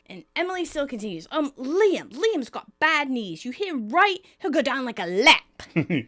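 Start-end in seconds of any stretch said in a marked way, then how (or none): 1.3-6.1 a hint of an English accent, slightly raised; lightly put-on British accent for Emily's coaching. Emily coaching Ross on rugby tactics, in a light British accent. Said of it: "You were so embracing the accent now".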